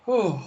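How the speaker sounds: long tired yawn. Real, not acted. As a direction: let out a big yawn. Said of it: "Somebody must be yawning out there".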